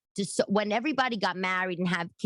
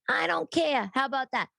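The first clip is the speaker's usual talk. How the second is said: much higher, emphatic snap of defiance; sharp, higher defiant retort; 8 semitones higher than usual. Real, not acted. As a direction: fire it back at mother. Defying mother.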